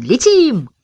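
high, rousing call; a joyful urging cry. A narrator's reading. Ben calling his dog to fly, rousing cry. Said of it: "кричал ему Бен".

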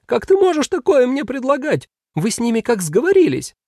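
how dare you, hurt; indignant demon. Acted. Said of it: "возмутился демон".

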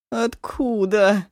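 long drawn, loud piercing cry; piercing wail. Acted. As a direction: wail it out in shock. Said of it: "завопила Ашун так пронзительно".

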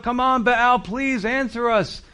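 high, urgent pleading, slowing at the end; crying out. Retold or imitated. Prophets dancing round the altar, begging Baal in high cries. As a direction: plead with a god who never answers. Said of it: "They're crying out".

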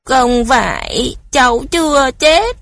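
put-on high, tearful child's plea; crying child. A narrator's reading. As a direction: sob out the denial like a frightened boy. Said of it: "Cu Tuấn òa lên khóc". (bé trai vừa khóc vừa cãi)

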